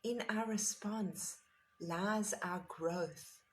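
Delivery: slow, weighty reading of a quote; reverent quote reading. Shown as a demonstration. To the meditation group, reading Frankl's quote slowly and reverently. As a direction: let each phrase land slowly and fade. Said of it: "And here is the magnificent quote".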